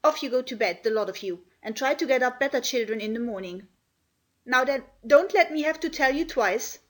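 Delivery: scandalised scolding; Martha, angry scolding. Acted. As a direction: tell the children off, indignant but not shouting. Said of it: "she was very angry indeed".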